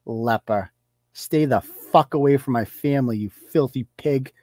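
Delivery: reading out her post, dripping with mock contempt; mock disgusted reading. Her post read back as a quiet sneer. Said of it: "most disgusting, hateful things".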